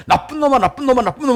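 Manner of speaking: imitated echo, high rapid-fire repeats; multiplying echo. Hills throw the insult back, high imitated echo. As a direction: ring it back again and again. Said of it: "메아리가 한 열 배로".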